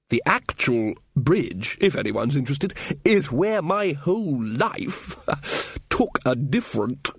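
slow, savouring reminiscence; nostalgic old wizard. Acted. Ridcully reminisces to companions about the bridge, nostalgically. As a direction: linger on each phrase, lost in memory.

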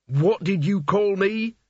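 slow, high, furious hiss; menacing hiss. A narrator's reading. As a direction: threaten with burning anger. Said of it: "Mort hissed".

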